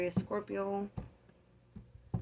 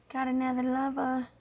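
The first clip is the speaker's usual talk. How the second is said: "Got another lover" pitched higher; higher incredulous echo; higher emphatic repeat; 6 semitones higher than usual. Real, not acted. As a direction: say it again, higher, stunned. Repeats a tarot finding.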